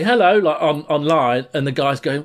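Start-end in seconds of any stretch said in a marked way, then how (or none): 0.0-0.4 high-pitched imitation of a woman; higher, louder mock female hello; woman's greeting. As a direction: lightly mimic her greeting, pitched up. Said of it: "you hear this woman say".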